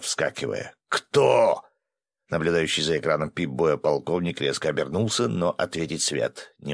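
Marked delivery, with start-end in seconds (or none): 0.9-1.6 higher, louder one-word demand; urgent call. A narrator's reading. Fighter calls out during a monster attack, urgent call. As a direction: throw the question out urgently.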